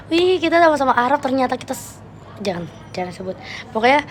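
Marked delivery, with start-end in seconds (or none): 0.1-2.0 mock excited girl, higher; imitating excitement. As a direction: retell her gushing, a bit hammed-up. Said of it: "Excited banget, kayak". (meniru cewek yang heboh, nada lebih tinggi)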